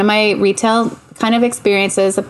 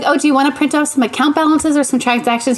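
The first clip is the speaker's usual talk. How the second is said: higher-pitched imitation of a puzzled teller; mock customer-service pitch; helpful teller; 6 semitones higher than usual. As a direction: retell it as an obliging bank clerk. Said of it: "She's like".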